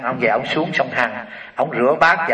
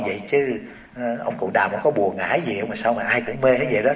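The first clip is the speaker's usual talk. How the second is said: hushed question; 4 semitones lower, 6 dB quieter than usual. Acted. Rich lady quietly asking the novice about the Buddha, hushed. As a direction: lower and softer, confiding. Lady asks the boy gently.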